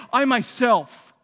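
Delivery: slow, loud "I myself"; firm answer. Retold or imitated. Jesus answering his challengers, slow and firm. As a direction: answer with calm authority. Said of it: "Jesus answering the Pharisees".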